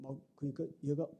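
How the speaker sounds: usual speaking voice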